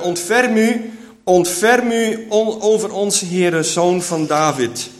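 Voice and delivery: high, loud, drawn-out plea; acted insistent cry, easing down at the end. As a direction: cry out for mercy, slow and forceful. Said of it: "ze riepen nog luider".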